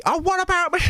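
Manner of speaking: high falsetto granny calling out, demanding; jealous granny. Retold or imitated. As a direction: play a jealous old lady wanting attention. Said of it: "Gee, Lucy".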